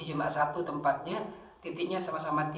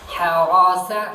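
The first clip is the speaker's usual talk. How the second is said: slip with a laugh; 3 semitones higher, 13 dB louder, much slower than usual. Real, not acted. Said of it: "ah, bukan".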